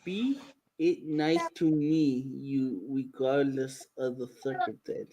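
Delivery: low, slow Darth Vader rumble; dopey deep voice. Retold or imitated. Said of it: "I sound like Darth Vader".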